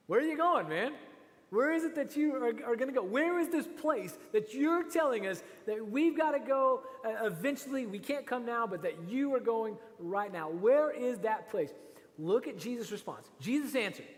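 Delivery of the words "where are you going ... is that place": higher, louder questioning; pressing disciple. Acted. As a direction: demand to know, pitched up. Voicing confused disciples pressing Jesus.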